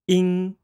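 "ing" held high and level; first tone ing. Shown as a demonstration. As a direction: sustain "ing" on a high flat pitch. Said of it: "Let's practice saying this".

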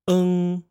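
"eng" held high and level; first tone eng. Shown as a demonstration. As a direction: sustain "eng" on a high flat pitch. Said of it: "Let's try that again".

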